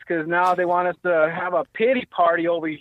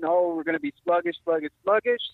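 mocking worriers; 3 semitones higher than usual. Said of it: "I'm hearing".

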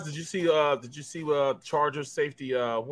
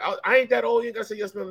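mock offended, pitched higher, "I ain't that old"; offended older person; 8 semitones higher, faster than usual. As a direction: play someone bristling at being called ma'am. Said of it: "And I bet people like".

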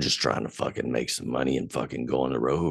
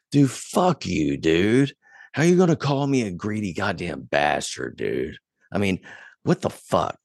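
angry retort; 4 semitones higher than usual. Retold or imitated. To a drunk friend on the phone, an indignant heated retort. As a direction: fire back at a friend's insult. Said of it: "And I'm like ... I was pissed".

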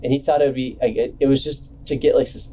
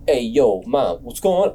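street tough guy. Retold or imitated. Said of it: "he acts like he's from the streets".

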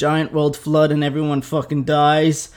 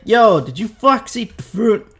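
mock angry God; 6 semitones higher than usual. God catching Adam and Eve.

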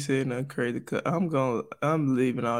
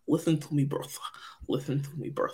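put-on Russian accent; 6 dB quieter than usual. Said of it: "It's my Russian accent, brother".

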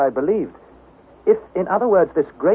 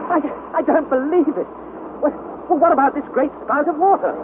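stammering disbelief; 11 semitones higher than usual. Acted. Nephew stunned by the news.

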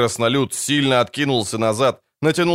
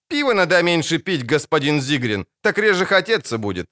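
put-on cheeky girl; 5 semitones higher than usual. Cheeky girl voiced by narrator.

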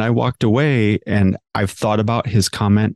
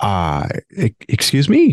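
intimidated disbelief; 3 semitones higher than usual. Retold or imitated. Retelling a student's startled reply to a hairdressing hero, intimidated disbelief. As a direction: imitate being taken aback, voice leaping up. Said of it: "Here I am intimidated by Irvin Rusk".

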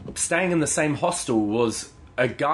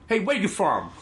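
higher, sweet mock-friendly question; imitated sudden sweetness; 6 semitones higher than usual. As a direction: turn sugary, as the suddenly charmed cashier. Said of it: "suddenly become super soft and sweet".

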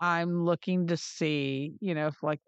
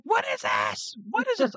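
put-on much higher, frantic child voice; panicked little boy; 13 semitones higher than usual. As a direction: play a scared kid asking over and over.

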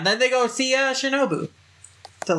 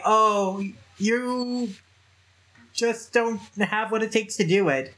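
slow mock doubt, drawn-out "you"; condescending goading; 3 semitones higher than usual. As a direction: feign pity to provoke him. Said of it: "it's to say".

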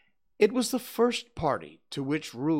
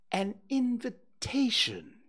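high, pompous owl voice; a fussy, self-important owl announcing news; Owl's voice; 10 semitones higher, slower than usual. Acted.

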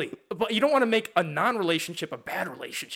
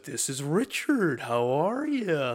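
slow intro voice; 3 semitones lower, slower than usual. Retold or imitated. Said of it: "get into that voice of".

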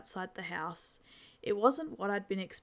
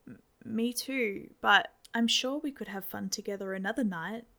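hopefully. Acted. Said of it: "I said hopefully".

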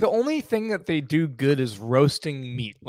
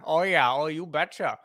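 mock Minnesota accent. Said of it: "nasally. Put it right up there".

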